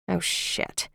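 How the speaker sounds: breathy whispered oh shit; whispered curse. Acted. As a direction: hiss it under your breath. Heroine's mortified inner exclamation.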